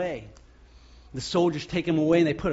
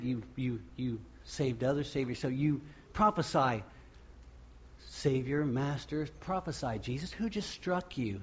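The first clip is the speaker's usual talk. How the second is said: mocking taunt; 6 dB quieter than usual. Soldiers taunting Jesus.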